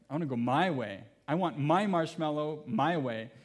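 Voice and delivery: put-on a toddler digging in her heels; stubborn toddler. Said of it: "the other part of her was saying".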